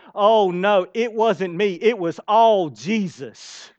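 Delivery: mock modest, slow on the last words; a hint of falsely modest deflection; false humility. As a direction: fake humble brush-off. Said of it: "And you go".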